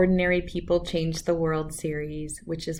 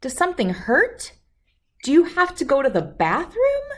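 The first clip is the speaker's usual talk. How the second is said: higher, louder fussing parent; anxious parent; 8 semitones higher, 6 dB louder than usual. Acted. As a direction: rattle off worried guesses. Anxious parent guesses what's wrong.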